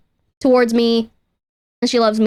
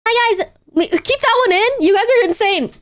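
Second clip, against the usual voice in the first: cutesy pet voice; 9 semitones higher than usual. Real, not acted. Chatting to pets in baby voice.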